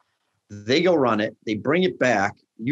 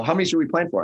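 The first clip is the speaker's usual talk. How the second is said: higher, teasing imitation of Grant; mock deferential question; 8 semitones higher, much faster than usual. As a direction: ask like he's humoring the big shot. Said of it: "when he calls me chef".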